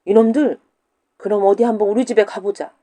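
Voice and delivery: loud furious challenge; angry shout. Acted. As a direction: shout them down in anger. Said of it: "과부가 화가 나서 소리쳤다". (화가 난 과부가 소리치듯)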